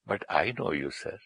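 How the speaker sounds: mildly tender, respectful retelling; retold loving reply. Speaker retells his reply to an offended industrialist, mildly loving. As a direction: answer gently, with a touch of affection. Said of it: "मैंने उसको बड़े प्यार से बोला".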